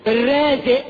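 "الرازق" cut short without its q; wrong pronunciation. Shown as a demonstration. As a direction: mimic "الرازق" as "er-raaze'". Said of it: "مش الرازق".

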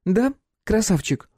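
high mocking drawl on Да; teasing. A narrator's reading. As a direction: taunt him slowly. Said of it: "задорным голосом".

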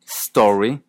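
"story" as store-ee; closed o. Shown as a demonstration. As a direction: round the o of "story". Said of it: "El segundo aparece".

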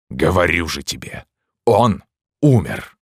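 despairing shout, rising and slowing; hoarse furious cry. A narrator's reading. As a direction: fling the words back in rage and despair. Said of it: "хриплым от бешенства и отчаяния голосом". (священник в бешенстве и отчаянии кричит)

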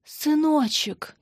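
a startled mother's slow cry; worried and excited. Acted. Mother hears her son unexpectedly, high and anxious. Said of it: "взволнованно спросила мама".

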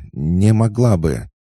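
high, loud, slow faltering refusal; nervous stammered echo. A narrator's reading. Lucy stammering back at Oksana. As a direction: stutter the refusal out. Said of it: "начнёт заикаться".

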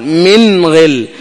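من غل with a short ghunna on the noon, then straight to the ghain; teacher shows the correct من غل, brief nasal hum; clear noon, short nasal sound. Shown as a demonstration. Teacher demonstrating correct recitation, short clear noon. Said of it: "لا، هنا مظهرة".

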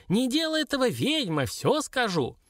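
high, panicky dwarf surrender; squeaky little creature begging; squealing plea. A narrator's reading. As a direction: squeal for mercy, easing down at the end. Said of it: "завизжал тот".

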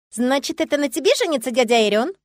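put-on a small child interrogating sternly; strict little girl. Little Liya questioning the new bride, stern. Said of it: "строго спросила".

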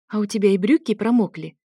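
lightly surprised wife; surprised question. Acted. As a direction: ask it with mild surprise. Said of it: "спросила я удивлённо".

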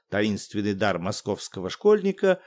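ordinary delivery, nothing marked

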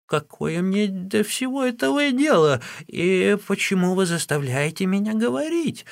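old Wang refusing to talk, in a high, put-on voice; defiant old woman. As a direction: snap back in a high crone voice. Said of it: "ответила старуха Ван".

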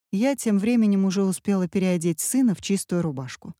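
plain reading voice

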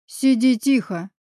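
slow, grumbling order; grumble. A narrator's reading. Guard grumbles at the caged girl, slow and gruff. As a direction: growl it out slowly. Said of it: "проворчал он".

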